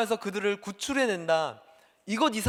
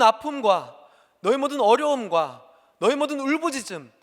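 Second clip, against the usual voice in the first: Moses proclaiming; 2 semitones higher, 4 dB louder than usual. Acted. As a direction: announce to the people like a prophet. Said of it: "이렇게 얘기합니다". (모세가 백성 앞에서 선포하듯)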